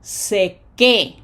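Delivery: "seque" with a loud final "que"; stress on accented syllable. Shown as a demonstration. Teacher shows graphic accent, "seque" stressed on "que". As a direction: punch the last syllable of "seque". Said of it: "Graphic accent".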